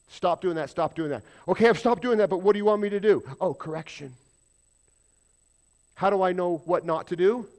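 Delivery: loud, high mock questioner; voiced believer asking. Pastor voicing a believer asking God, loud and pleading. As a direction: play the confused believer asking what now.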